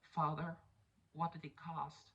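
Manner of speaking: a hint of a hushed child; child Gamora. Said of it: "baby Gamora's like".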